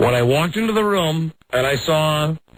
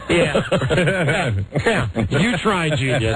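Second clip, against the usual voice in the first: sarcastic laughing scoff. Retold or imitated. Sarcastic reply to son.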